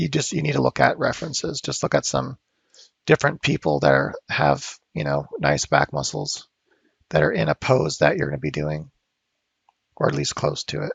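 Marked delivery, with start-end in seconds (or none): 4.3-10.9 voice giving out and dropping low. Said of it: "my voice is kinda going out of me".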